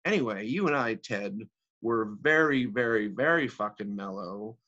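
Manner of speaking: lightly acted wealthy divorcee reminiscing; theatrical monologue, wry and animated; Agatha. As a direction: needle an old companion, then drift into amused memories.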